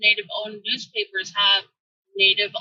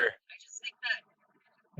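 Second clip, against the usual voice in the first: garbled, muffled underwater audio; bad connection, words drowned; 9 semitones lower, 8 dB quieter, much slower than usual. Real, not acted. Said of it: "Sounds like you're underwater".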